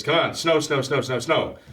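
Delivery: a touch of hammed-up frustration; mock aggravated kid. Calvin losing patience with the weather, mildly aggravated chanting. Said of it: "He's getting a little bit aggravated here".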